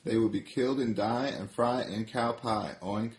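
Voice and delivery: high pig voice easing back down; warning pig, pitch sliding toward normal; lightly voiced piggy. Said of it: "says Piggy".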